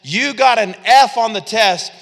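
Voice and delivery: lightly voiced stern God; a teacher handing back a failed test; voicing God. God telling Saul he failed, mildly stern. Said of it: "God says".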